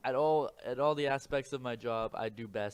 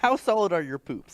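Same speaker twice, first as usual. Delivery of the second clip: laughing; 8 semitones higher, 14 dB louder than usual. Real, not acted. Teasing interviewer question.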